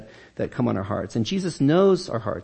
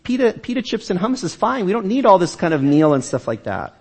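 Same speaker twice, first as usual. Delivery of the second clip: higher, easygoing friendly invitation; casual Jesus; 7 semitones higher than usual. Acted. Jesus inviting busy Martha to relax with guests, higher and casual. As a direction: coax her to drop the chores and join in. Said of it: "I just picture kind of Jesus sort of saying".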